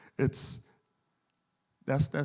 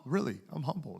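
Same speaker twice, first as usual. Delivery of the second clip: higher, fast put-on voice of a proud boss; mock humble boss; 9 semitones higher, faster than usual. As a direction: send up the boss who brags he's humble. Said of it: "we'd say".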